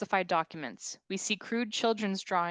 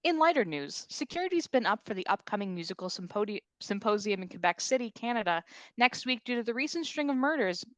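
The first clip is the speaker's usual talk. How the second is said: news anchor; 3 dB louder than usual. Acted.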